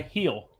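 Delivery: drawn-out "heel" with a long ee; "heel" stretched out slowly; Southern pronunciation. Shown as a demonstration. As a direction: hold the ee in "heel", Southern style. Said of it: "for Southerners, we say heel".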